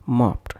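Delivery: "mopped" ending in pt; wrong voiceless ending. Shown as a demonstration. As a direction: harden the end of "mopped" to p plus t. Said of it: "and not mopped".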